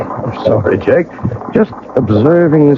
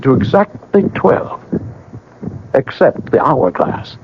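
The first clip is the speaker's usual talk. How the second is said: measured, brooding storyteller read; story narration; 3 semitones higher than usual. A narrator's reading. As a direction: narrate it like a haunted memoir. Narrator describes time stopping.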